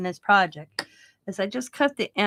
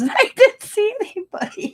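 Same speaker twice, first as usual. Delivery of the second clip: squeaky high mock neighbor, amazed; neighbor's voice; 14 semitones higher, 7 dB louder than usual. Neighbor swearing he saw nobody, in a high mock voice. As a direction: pitch way up, playing the stunned neighbor. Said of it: "And he goes".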